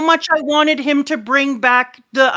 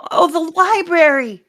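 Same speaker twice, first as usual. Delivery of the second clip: tag; 6 semitones higher than usual. Acted. Robin mourning burning library, acted.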